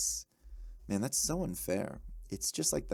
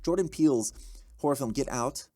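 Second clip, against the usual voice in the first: rich reading voice; 5 dB louder than usual. Acted. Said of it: "I'm reading in a rich".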